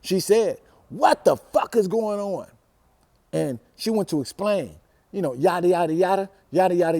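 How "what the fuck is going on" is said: angry demand. Retold or imitated. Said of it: "let's put it on the record".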